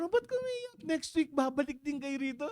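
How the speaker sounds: lilting high pastor voice; sing-song pastor. Retold or imitated. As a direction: chirp it like a cheerful pastor. (masayang pakantang boses ng pastor)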